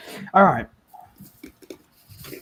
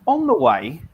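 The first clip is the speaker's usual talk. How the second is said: audio cutting in and out; broken connection dropouts; corrupted glitchy audio; 5 semitones higher, 6 dB louder than usual. Real, not acted. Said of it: "Your audio keeps cutting out for me".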